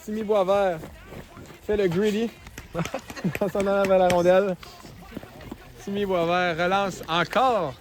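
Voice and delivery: lively hockey call; play-by-play. Real, not acted.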